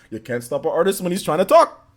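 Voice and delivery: a hint of cartoon bear, rising at the end; mock-defiant light cartoon bear; Yogi Bear. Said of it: "keep talking like this".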